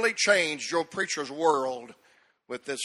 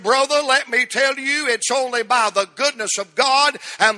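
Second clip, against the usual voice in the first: raised, higher pulpit voice; forceful preaching; 5 semitones higher, 5 dB louder than usual. Real, not acted. Preacher answers his brother crediting God's grace, forceful preaching. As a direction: testify loudly, driving toward a climax.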